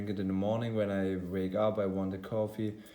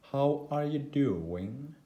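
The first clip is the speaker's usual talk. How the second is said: put-on higher, slow, unsure British accent; attempted British accent; 6 semitones higher, slower than usual. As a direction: ask politely in a try-hard British accent. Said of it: "I'm trying to do a British accent".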